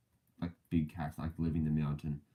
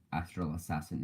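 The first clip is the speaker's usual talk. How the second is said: "Astral Assassin" said again in a switched, slightly softer accent; changed accent; 4 dB quieter than usual. Shown as a demonstration. Naming his teammate a second time in a changed accent. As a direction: repeat "Astral Assassin" in an offhand put-on accent. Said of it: "changed my accent for the second".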